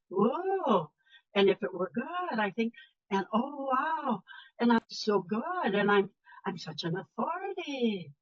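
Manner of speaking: a hint of soft, lilting up-talk, lightly put on; mock the networking women who end every sentence up; mocking uptalk. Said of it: "the inclining inflection".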